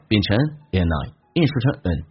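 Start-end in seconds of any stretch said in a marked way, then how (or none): 0.8-1.1 "and I" with no D, the N linked onto I; "and I" said as one linked "uh-nai"; linked, dropped D. Shown as a demonstration. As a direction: run "and I" together as "an-I". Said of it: "用n连音把D去掉".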